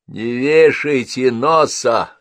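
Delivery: put-on old woman comforting Henrietta. A narrator's reading. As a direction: cheer her up slowly.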